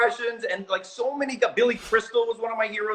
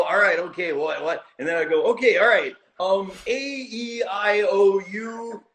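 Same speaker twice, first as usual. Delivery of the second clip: Howie Mandel impression; slower than usual. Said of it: "the impression of you".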